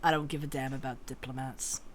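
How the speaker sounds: fast, soft dismissive brush-off. Acted. Nagalean dismissing the diplomat. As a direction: toss it off with an eye roll. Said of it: "rolling his eyes".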